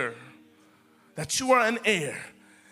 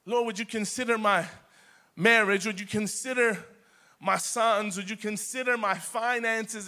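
softer, pleading little voice like a beggar; begging prayer; 3 dB quieter than usual. Retold or imitated. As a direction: beg God timidly, almost pleading. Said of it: "just begging for things".

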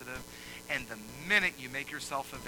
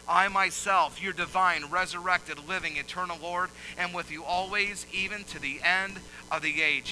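loud, high, stressed I myself; emphatic Jesus quote; 4 semitones higher, 7 dB louder than usual. Shown as a demonstration. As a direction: hammer each word of the promise. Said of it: "pay special attention what I'm about to say".

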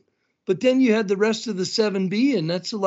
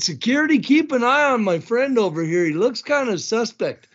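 mock announcer; 3 semitones higher than usual. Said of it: "I said".

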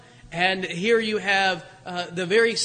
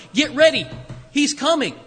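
calling out; 4 semitones higher, 4 dB louder than usual. Acted. The crying voice in wilderness.

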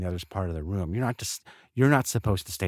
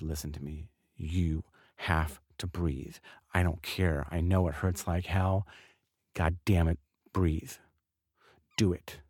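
intense wife. Retold or imitated. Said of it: "And she's very intense".

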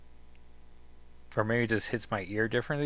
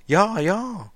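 dragon; 9 semitones higher, 6 dB louder than usual. Acted. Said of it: "Probably should try that with dragon voice".

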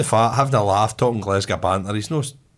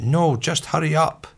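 slow, higher-pitched refusal; impatient retort; 5 semitones higher, slower than usual. Retold or imitated. Golfer turns down the offer to play through, impatient retort. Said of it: "the guy went".

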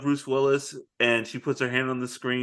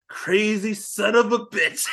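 laughing quote; 5 semitones higher, slower than usual. Retold or imitated. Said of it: "he's like".

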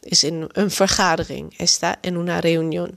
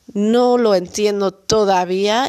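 apologetic plea. Pretend. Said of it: "Dan kun je zeggen".

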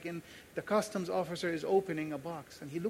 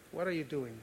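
measured, understated voice of God; lightly voiced divine question; God's voice. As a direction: ask it calmly as God would. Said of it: "God's voice in my head".

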